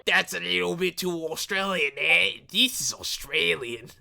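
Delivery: shaky-grade fake Australian accent. Shown as a demonstration. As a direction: put on a bad Australian accent. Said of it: "my British becomes Australian".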